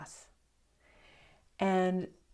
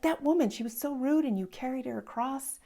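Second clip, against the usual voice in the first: much higher, louder indignant rant; outraged young monk; 8 semitones higher, 4 dB louder than usual. Acted. Young novice venting to the old monk about the rude woman, higher and louder. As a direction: pour out the grievance, pitched up high.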